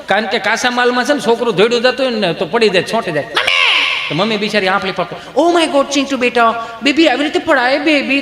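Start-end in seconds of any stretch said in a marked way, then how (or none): 3.2-4.1 very high, piercing mock wail; child's cry for mummy. Fallen child calling to mother, wailing. 5.4-8.2 high, gushing mother's alarm; hammed-up motherly panic over baby; fussing mother. Mother rushing to her fallen child, fussing.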